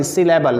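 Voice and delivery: सिलेबल said distinctly with a falling close; clearly pronounced सिलेबल. Shown as a demonstration. Teacher telling students it is not syllabus, clearly pronounced. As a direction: repeat सिलेबल as a correction, ending in -बल. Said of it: "सिलेबस नहीं".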